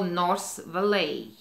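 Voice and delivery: slow and deliberate, spelling it out; patient, overly slow directions. Retold or imitated. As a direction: drag each word out slowly. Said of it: "I very slowly go".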